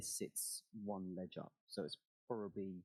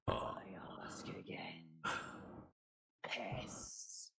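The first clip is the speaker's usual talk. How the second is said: slow, menacing dragon whisper; much slower than usual. Acted. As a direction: loom over them, slow and cold. Dragon speaks to the party.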